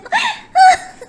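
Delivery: loud squealing laugh; loud high laugh. Real, not acted. Laughing at the dog.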